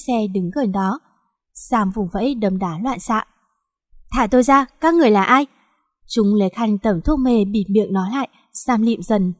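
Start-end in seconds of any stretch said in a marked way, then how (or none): 4.1-5.5 loud, panicked cry for release; a girl shouting at her kidnappers; frightened shout. Acted. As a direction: yell it while struggling.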